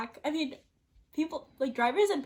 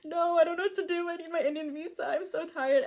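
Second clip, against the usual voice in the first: retold crying; 5 semitones higher than usual. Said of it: "why are you crying".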